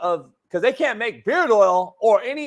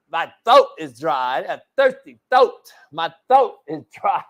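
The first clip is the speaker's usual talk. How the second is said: Costanza impression; 5 semitones lower than usual. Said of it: "the Jamie Foxx Costanza".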